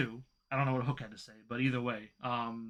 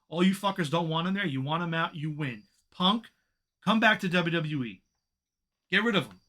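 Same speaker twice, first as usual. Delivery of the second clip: fed-up rant, pitched up and emphatic; frustrated; 3 semitones higher than usual. Real, not acted. Fan venting at the company over losing Punk, frustrated. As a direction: vent it, pressing hard on the key words. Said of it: "It's just frustrating".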